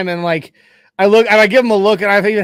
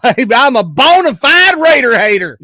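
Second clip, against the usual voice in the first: hammed-up Tennessee hick accent, louder; 4 semitones higher, 5 dB louder than usual. Shown as a demonstration. Podcast host showing his childhood Tennessee accent. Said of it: "with the, the Tennessee accent".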